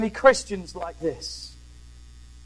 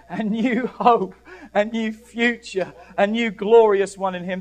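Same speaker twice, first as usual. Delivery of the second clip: measured declarations with punched key words; emphatic preaching; 6 dB louder than usual. Acted. Preacher telling church of God's gifts, emphatic preaching. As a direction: build the list of promises for the congregation.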